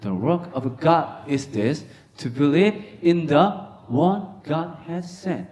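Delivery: stretched, word by word; slow reading aloud. Shown as a demonstration. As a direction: read the verse slowly. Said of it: "시작".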